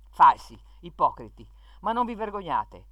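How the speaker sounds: shaming them in indignation; indignant rebuke. Real, not acted. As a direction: hurl the insults, then scold them. Writer rebukes those he accuses.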